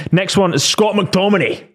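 put-on Scottish accent. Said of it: "I keep doing a Scottish accent".

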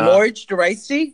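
Можно войти said high and slow with American r; learner attempt. Shown as a demonstration. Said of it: "That was pretty close".

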